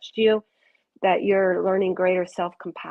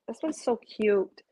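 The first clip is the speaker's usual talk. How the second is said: whisper. Real, not acted. Delighted card reading aside.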